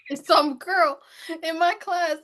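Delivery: high, loud, tearful laughter; laugh-crying while telling the story; laughing through it. Real, not acted.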